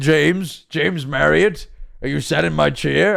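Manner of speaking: creaky, rasping, badly done character voice. Imitating how a video's narrator sounds like Donkey: Donkey voice. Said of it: "I can't do Donkey's voice".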